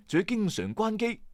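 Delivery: ordinary delivery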